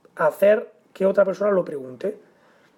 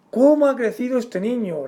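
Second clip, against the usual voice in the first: "Cómo ha crecido este niño" as a higher exclamation; 4 semitones higher than usual. Shown as a demonstration. Teacher reads example of exclamative sentence, exclamation. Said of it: "la oración es exclamativa".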